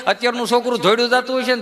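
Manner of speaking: ordinary talk, nothing marked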